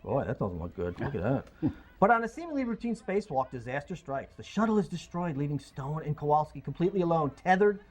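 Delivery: dramatic movie-trailer read; trailer voiceover. Acted. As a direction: narrate it like a film trailer. Reads Gravity synopsis.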